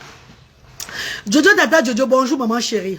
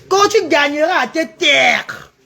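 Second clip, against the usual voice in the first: mock quote; 3 semitones higher, slower than usual. Mocking a commenter's phrase.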